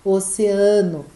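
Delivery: "Oceano" said slowly the Portuguese way, stress on "a"; Portuguese pronunciation. Shown as a demonstration. Teacher contrasting Portuguese oceano for students. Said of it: "nós falamos em português".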